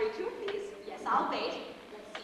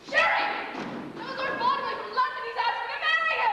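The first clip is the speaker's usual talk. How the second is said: high, loud burst of joy; girlish squeals; 7 semitones higher, 3 dB louder than usual. Acted. Actress announces a proposal to Sherry, squealing with excitement. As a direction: shriek out the big news. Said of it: "your girlish squeals".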